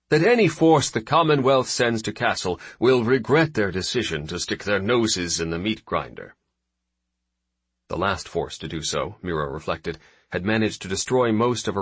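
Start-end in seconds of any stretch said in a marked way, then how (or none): 0.1-6.4 confident admiral. Acted. Admiral voiced by narrator.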